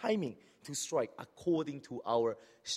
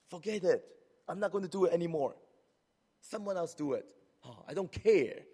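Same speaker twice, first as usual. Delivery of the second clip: higher, louder indignant huff; huffy quitting; 6 semitones higher, 5 dB louder than usual. Retold or imitated. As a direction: storm off in a huff, fast. Voicing a hurt churchgoer.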